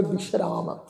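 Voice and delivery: ਬਿਸ਼ਰਾਮ with a soft sh, bi-shraam; ਬਿਸ਼ਰਾਮ spoken slowly with a clear sh; clear sh sound. Shown as a demonstration. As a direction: say the ਸ਼ in ਬਿਸ਼ਰਾਮ as sh, not s. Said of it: "ਸੱਸੇ ਪੈਰ ਬਿੰਦੀ ਲਗਾ ਕੇ".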